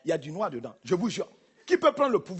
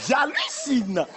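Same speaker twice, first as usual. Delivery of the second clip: surprised white woman imitation. Comedian mocking a surprised white woman, hammed-up squeal. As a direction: ham up a shocked woman's gasping exclamations. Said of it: "elles adorent faire".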